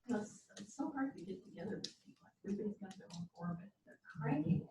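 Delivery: quick, hushed imitation of a cranky friend; lightly voiced busy friend making excuses; old complaining self. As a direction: rattle off the excuses fast and breathy. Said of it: "I always used to say".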